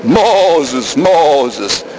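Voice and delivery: low, drawn-out solemn call; Charlton Heston movie call. Retold or imitated. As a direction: intone the name like an epic film. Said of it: "You don't need Charlton Heston".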